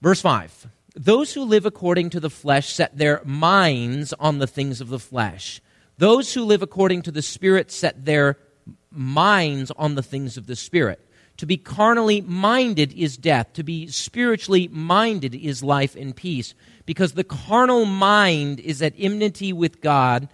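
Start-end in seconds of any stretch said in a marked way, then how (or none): 1.0-11.0 scripture reading that leans on "minds"; stress on minds. Shown as a demonstration. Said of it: "I'm gonna emphasize a word here". 11.4-20.3 verse read with weight on "minded" and "mind"; scripture reading that picks out "mind"; stress on mind. Shown as a demonstration. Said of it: "What was the word of emphasis there?".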